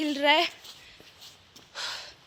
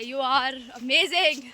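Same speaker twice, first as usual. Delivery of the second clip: slow, stretched-out self-praise; mock pep talk; much slower than usual. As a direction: cheer yourself on, drawn out. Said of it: "ऐसे खुद को यकीन दिलाना पड़ता है".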